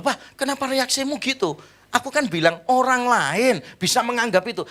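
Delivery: high, taken-aback questioning; startled wife. Retold or imitated. Wife questioning her husband's sudden reaction, startled. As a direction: imitate a startled wife explaining herself. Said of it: "Terus istri saya kaget gitu".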